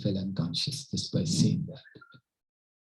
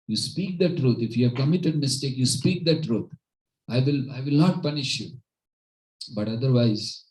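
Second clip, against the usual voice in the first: raised, higher-pitched royal ultimatum; insistent, louder kingly warning; retold angry king; 4 semitones higher, 4 dB louder than usual. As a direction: act out a stern king demanding truth. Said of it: "Now king was again angry".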